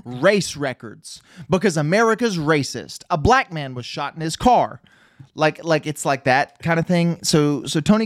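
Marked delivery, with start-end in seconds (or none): 0.0-4.8 fast, high preachy DJ voice; mock DJ rant. Friend mimicking the movie DJ's rant, mocking. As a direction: rattle it off like a smug lecturing host.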